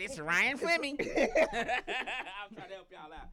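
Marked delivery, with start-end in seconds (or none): 0.0-1.0 hyped announcer name call. Retold or imitated. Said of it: "I said".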